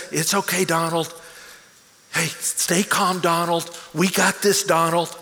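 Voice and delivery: calm and gentle. Retold or imitated. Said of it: "how calm and gentle you are".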